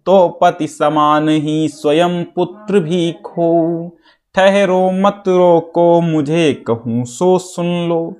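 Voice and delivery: slow sing-song verse reading; measured, drawn-out lines with held endings; poem recitation. Acted. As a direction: chant the verse, stretching each syllable.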